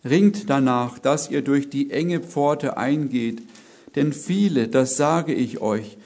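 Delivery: a preacher reading Luke aloud; scripture reading. Acted. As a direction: proclaim the verses with weight.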